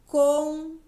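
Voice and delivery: "contente" with TEN loud, high and drawn out; stressed syllable demo. Shown as a demonstration. Teacher asks which syllable is strongest, stressing TEN in "contente". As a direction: stretch and punch the middle syllable of "contente". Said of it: "Qual que eu falei mais forte?".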